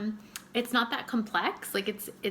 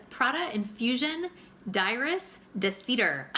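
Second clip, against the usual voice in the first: a slow, hammed-up French accent on "D'iris de Cedar"; mock French accent; 4 semitones higher than usual. Shown as a demonstration. Naming the Prada perfume to viewers, in a mock French accent. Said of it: "That's my French accent for you".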